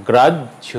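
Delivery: গ্রাহ্য split "graj-jho"; গ্রাহ্য with a clear stop before "jho"; held double consonant. Shown as a demonstration. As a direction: hold the j in গ্রাহ্য. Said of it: "উচ্চারণ হবে".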